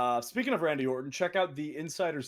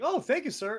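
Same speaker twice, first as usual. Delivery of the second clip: meek thanks; 10 semitones higher than usual. Retold or imitated. Retelling meek reply to Randy.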